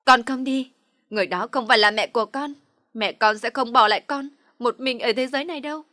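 loud, high refusal; defiant shout. A narrator's reading. Girl pulling away from her aunt, shouting defiantly. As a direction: throw the words at her. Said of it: "tôi hất văng tay ra".

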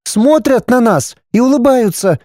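put-on little boy describing; wide-eyed child's wonder; boy describing faces, amazed; high child's voice, wondering. A narrator's reading.

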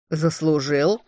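заслужил asked back with a rising, scoffing tune; mocking question. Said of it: "насмешливо переспросил Аримар".

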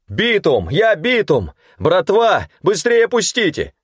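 high hoarse panicked yells, panting; hoarse shouting. A narrator's reading. Runner shouting to the guards, hoarse and breathless. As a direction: yell hoarsely, out of breath from running. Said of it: "хрипло крича и запалённо приседая через шаг".

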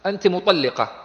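"مطلقة" with an i after the doubled lam; kasra on the lam. Shown as a demonstration. Teacher repeating the example, "مطلقة" with kasra on the lam. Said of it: "بكسر اللام".

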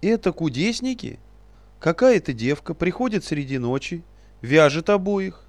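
very high, loud squeaky aghast cry, slowed; aghast at what he hears; horrified question. Acted. Same outraged little sage.

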